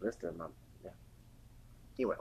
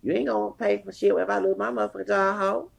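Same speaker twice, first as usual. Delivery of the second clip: retold cussing out; 6 semitones higher than usual. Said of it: "I said".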